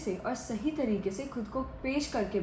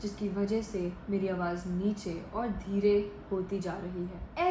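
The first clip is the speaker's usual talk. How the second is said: subdued, slightly lowered sad voice; demonstrated sadness, softly understated; 2 semitones lower, 3 dB quieter than usual. Shown as a demonstration. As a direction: tell it reluctantly, in no hurry. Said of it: "मैं एकदम से धीरे और कम आवाज़ में बोल रही हूँ".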